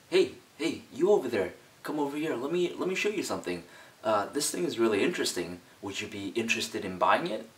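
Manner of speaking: a meek seller coaxing a passerby; soft timid salesperson. Shown as a demonstration. Demoing a soft seller calling a passerby over. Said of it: "the first one is obviously softer".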